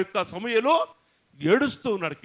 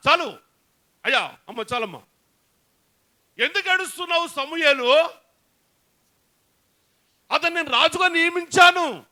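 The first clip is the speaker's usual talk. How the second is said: a lightly raised, firm divine voice; God rebuking Samuel; 2 semitones higher than usual. Acted. Preacher voicing God chiding the grieving prophet, firm and raised. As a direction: speak as God asking why he still weeps. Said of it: "దేవుడు సమూయేలుతో మాట్లాడుతున్నాడు".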